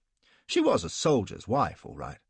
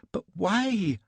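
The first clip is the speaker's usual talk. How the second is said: much higher, shrill repeat; parroting cry; 11 semitones higher, 3 dB louder than usual. A narrator's reading. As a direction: squawk it like a parrot. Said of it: "cries she, like a damned parrot".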